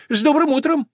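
very high, cheery call; sparrow calling out. A narrator's reading. Sparrow greets old horse from the roof, calling. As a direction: chirp the greeting out from above. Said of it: "закричал воробей с крыши".

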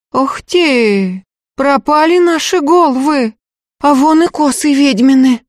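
high, loud frightened woman; fearful. A narrator's reading. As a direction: gasp out your dread. Woman fearful at witch circles.

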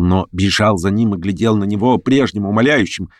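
plain reading voice

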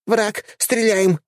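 high squeaky battle cry; dryad shouting. A narrator's reading. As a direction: yell it high like an excited dryad. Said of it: "выкрикнула водитель".

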